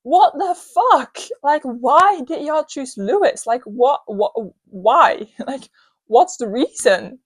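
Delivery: mock yell, drawn-out and exasperated; retold screaming. Fan yelling at the screen over Lewis's win, mock scream. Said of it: "I remembered screaming at my screen".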